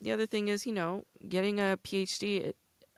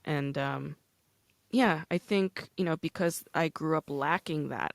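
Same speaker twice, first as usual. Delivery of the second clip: ordinary talk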